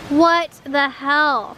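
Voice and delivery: slow, drawn-out exasperation; appalled disbelief. Real, not acted. Cleaner finding trash, appalled disbelief. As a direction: stretch it out, word by word.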